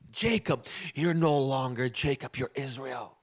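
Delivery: low, soft, solemn pronouncement; a hint of God speaking. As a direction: hand down a new name gently. God renames Jacob.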